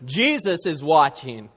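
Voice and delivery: lightly voiced parrot, drawn out; a hint of a deadpan bird repeating its call; slow, lightly acted bird reply; talking parrot. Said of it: "And the bird goes".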